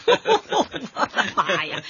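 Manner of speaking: laughing, slowed exclamation. Acted. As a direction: laugh it out in disbelief. Laughing at tree called art.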